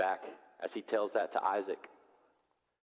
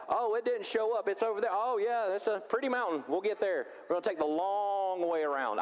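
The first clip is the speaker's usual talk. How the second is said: mock evasive stalling; 8 semitones higher than usual. Pastor stalling as Abraham.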